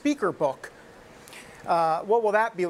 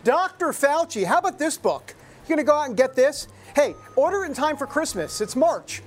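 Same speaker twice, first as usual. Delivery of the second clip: mock-excited book pitch; amused mocking hype; 6 semitones higher than usual. Real, not acted. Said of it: "I'm already laughing".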